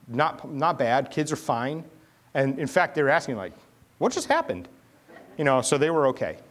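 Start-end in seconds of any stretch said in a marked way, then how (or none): 4.0-4.7 put-on kids' question. Kids asking after the crash.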